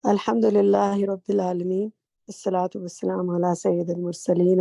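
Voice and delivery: formal opening praise. Acted.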